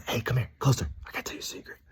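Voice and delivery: secretive prank whisper. Retold or imitated. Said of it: "I whispered in a grown man's ear".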